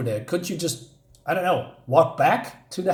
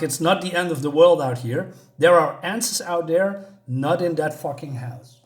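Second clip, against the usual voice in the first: mildly acted angry rant, a touch raised; retold exploding; 2 semitones higher than usual. Sam exploding again about being in prison, retold outburst. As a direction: vent at being stuck, half-performed. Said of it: "So he explodes again and he says".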